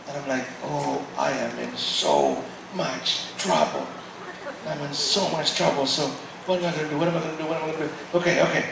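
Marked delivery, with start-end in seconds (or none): 0.6-8.2 low, soft, worried muttering to himself; panicked mumble. Retold or imitated. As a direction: fret under your breath. Panicking, in trouble.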